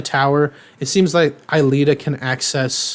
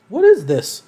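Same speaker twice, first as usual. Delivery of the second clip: high mock alarm; 8 semitones higher, 3 dB louder than usual. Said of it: "they're like".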